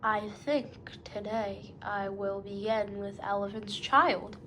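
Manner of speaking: a hint of a crocodile speaking through clenched teeth; lightly voiced crocodile, words pushed through the teeth; between his teeth. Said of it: "he said it between his teeth like this".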